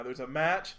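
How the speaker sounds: understated MATCH with a rising end; questioning emphasis. Shown as a demonstration. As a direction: say MATCH lightly, pitch lifting at the end. Contrasting kinds of match.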